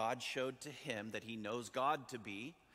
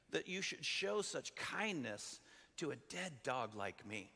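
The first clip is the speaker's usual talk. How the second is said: exclaiming; 3 semitones higher, slower than usual. Acted. Mephibosheth to David, overwhelmed by undeserved kindness, exclaiming. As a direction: exclaim it slowly, stretching the key words. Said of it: "didn't just say, he exclaimed".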